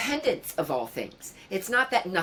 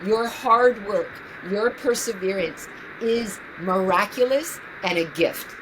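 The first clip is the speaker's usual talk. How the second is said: tender, earnest. Real, not acted. Tender advice to her younger self.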